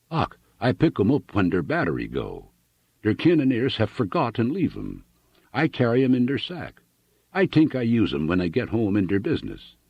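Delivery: put-on chatty thick German accent; an immigrant farmer telling his story, heavy German accent. Hooven tells Annixter how he came to America, German accent.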